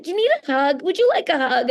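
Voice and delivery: high-pitched, tender offer; retold soothing question, pitched well up; acted comforting. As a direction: coax someone who is upset, voice lifted. Offering crying fan a hug.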